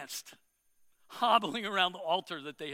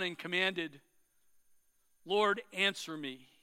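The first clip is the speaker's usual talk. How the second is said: earnest prayer. Acted. Elijah prays aloud.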